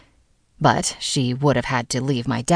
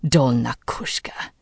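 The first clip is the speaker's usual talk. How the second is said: put-on Bulgarian accent. A narrator's reading. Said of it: "His voice became highly accented".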